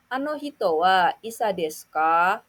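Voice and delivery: rising question intonation on "desu ka"; rising question tune. Shown as a demonstration. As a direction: end on a rise at ka. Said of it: "jangan lupa untuk menaikkan intonasi pada akhir kalimat".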